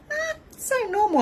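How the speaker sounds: mum voice. Retold or imitated. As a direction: imitate a casual mum. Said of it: "My mum's like".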